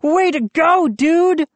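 high, delighted congratulation; grinning cheer. A narrator's reading. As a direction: congratulate a buddy with a grin. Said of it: "Moose grinned".

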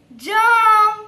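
loud, high, drawn-out word; reading out loud. Shown as a demonstration. Teacher models a word for children, loud and drawn out. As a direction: sound it out loudly on a held high note. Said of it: "મોટેથી વાંચજો".

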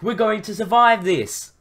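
high-pitched jubilant call; shouted. A narrator's reading. Rider tells Luke they will survive, shouted. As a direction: cry it out high, triumphantly. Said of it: "I shouted at Luke".

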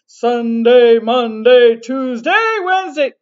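loud barked military roll call; mock soldier counting off days. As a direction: shout the days like a general. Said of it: "sound a little bit like a soldier".

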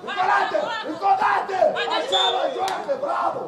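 urging on. Real, not acted. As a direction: drive the player on from the touchline.

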